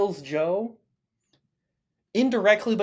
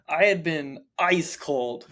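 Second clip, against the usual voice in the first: laughing; slower than usual. Real, not acted. Laughing at own bad predictions.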